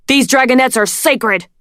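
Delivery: loud desperate shout. A narrator's reading. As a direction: shout it in defiance. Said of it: "Dune shouted".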